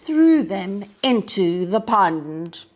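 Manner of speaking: put-on lively storybook narration for young listeners; reading to children. A narrator's reading. Teacher reading a picture book to children, lively storybook voice. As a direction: read it like story time on the rug.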